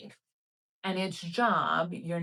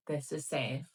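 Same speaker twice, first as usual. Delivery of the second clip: soft, even inner voice; understated, calming reassurance; reassuring self-talk; 4 dB quieter than usual. Retold or imitated. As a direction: quietly talk yourself into feeling safe. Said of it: "this is all my internal dialogue".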